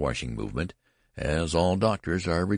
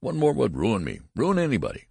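indignant grumbling; 7 semitones higher, 3 dB louder than usual. A narrator's reading.

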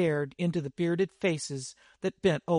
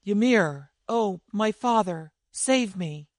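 a raised, pleading cry for help, moderately louder; ringing cry; 4 semitones higher, 3 dB louder than usual. Acted. Naked girl crying to her father Ymir, ringing plea. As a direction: call out to the heavens for rescue. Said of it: "cried out in a voice that rang".

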